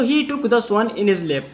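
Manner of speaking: very slow, word by word English; slow dictation. Shown as a demonstration. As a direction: spell it out slowly for the class. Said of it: "repeats sentence for class". (धीमे-धीमे बोलकर लिखवाना)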